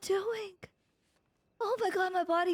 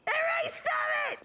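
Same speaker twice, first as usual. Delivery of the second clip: high fast shout at chat; playful order to stop; mock shout; 8 semitones higher, faster than usual. Real, not acted. Streamer shouting at gifting chat to stop, playfully.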